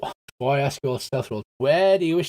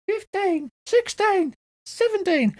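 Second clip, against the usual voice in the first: very high squeaky count; counting pixie; slower than usual. Acted. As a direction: squeak out the numbers as a tiny pixie. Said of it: "the pixie goes".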